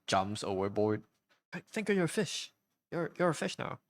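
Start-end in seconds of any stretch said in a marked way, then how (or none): 1.5-3.8 high mock shout across a deck; high yell.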